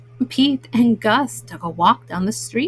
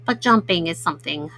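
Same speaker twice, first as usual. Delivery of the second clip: lower, lightly voiced character wishing he could jump; a hint of a sad little cat, pitched down; wistful Gus; 7 semitones lower, 4 dB quieter than usual. Gus voiced in read-aloud story.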